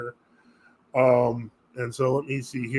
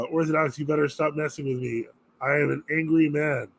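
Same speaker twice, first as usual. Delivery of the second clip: mock angry strong man; 2 semitones lower than usual. Plays an angry scary man.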